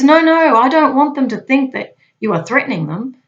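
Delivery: high, loud, insistent correction; retold screaming boss. Boss correcting the agent, retold as a loud high protest. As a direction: cut in forcefully as an exasperated boss. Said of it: "so he's screaming now".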